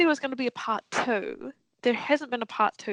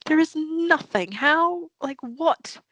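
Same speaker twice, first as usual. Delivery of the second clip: exasperated retort; 6 semitones higher, slower than usual. Retold or imitated. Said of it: "And I'm like".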